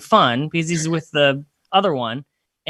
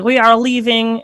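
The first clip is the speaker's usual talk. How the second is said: upset Eastern European sister; 4 semitones higher than usual. Retold or imitated. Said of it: "her sister gets upset".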